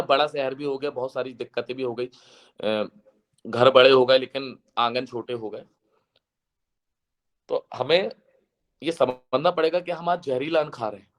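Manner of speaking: ordinary talk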